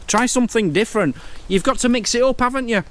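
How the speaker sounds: talking with a runny nose; stuffed up from a runny nose. Real, not acted. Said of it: "I've got a right runny nose".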